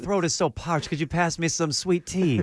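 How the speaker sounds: lightly put-on Cajun drawl; a hint of Cajun, half laughing; Cajun accent. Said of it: "He has, like, a Cajun accent".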